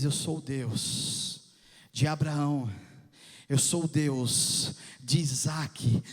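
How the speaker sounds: low, slow, solemn divine voice; God declaring himself, low and slow. Acted. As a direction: speak as God, weighty and slow.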